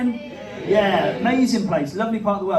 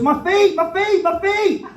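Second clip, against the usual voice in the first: high, drawn-out cry of pain; talking dog voice; 10 semitones higher, 6 dB louder, slower than usual. Pretend.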